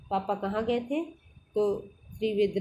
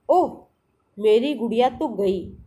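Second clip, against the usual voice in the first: sudden loud gasp of dismay at the falling doll; alarmed little girl crying out; shocked cry; 5 dB louder than usual. Acted. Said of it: "Meenu की चीख निकल गई".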